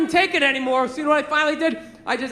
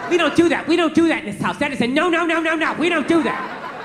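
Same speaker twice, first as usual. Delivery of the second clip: mildly imitated scolding mother; retold scolding scream; 2 semitones higher than usual. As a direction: scold like he is five, without screaming. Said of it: "She starts screaming at me like I'm five".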